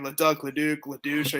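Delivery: "Leduc, Leduc, Ledouche", each ending different; duck, duke, then douche endings on "Leduc, Leduc, Ledouche"; listed mispronunciations. Retold or imitated. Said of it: "I hear everything".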